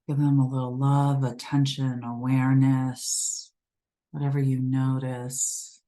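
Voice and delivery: unhurried meditation guide with long pauses; calm, spaced-out meditation instructions; guided meditation. Acted. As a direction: gently guide them to settle in, pausing between phrases. Leads guided grounding meditation.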